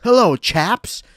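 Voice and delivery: mock British accent. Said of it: "close our eyes".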